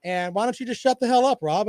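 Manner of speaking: co-host bragging about Georgia, mock voice. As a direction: mimic a smug fan's brag. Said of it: "just tell me".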